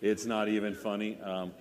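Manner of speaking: drowsy stoned voice on painkillers; loose, doped-up delivery. Real, not acted. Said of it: "I am so stoned right now".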